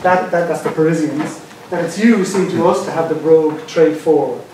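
dramatic reading of a vernacular poem; lively verse read aloud; poem recitation. Acted. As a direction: perform the poem as indignant back-talk. Reads out translated poem.

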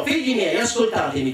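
richiamo acuto in apertura, poi scende; urlo contenuto. Acted. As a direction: chiama a raccolta i figli, senza urlare davvero. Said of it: "batté forte le mani e urlò". (urlo recitato, più acuto che forte)

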